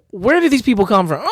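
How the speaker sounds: laughing through the question; high, giggling disbelief. Real, not acted. Creator laughing at his own homeless people, laughing.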